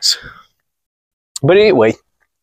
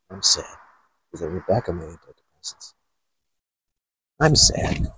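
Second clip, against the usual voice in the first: low, much softer sulky mumble; mock sad; 8 semitones lower, 10 dB quieter than usual. Mocking a moody girl, soft sulky mumble. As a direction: mope like a sulking child.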